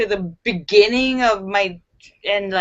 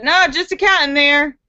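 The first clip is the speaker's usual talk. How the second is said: raised, dismissive cop line; a hint of an unbothered cop; lightly voiced cop; 4 semitones higher, 3 dB louder than usual. Cop dismissing the second basket, lightly voiced. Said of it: "the cop said".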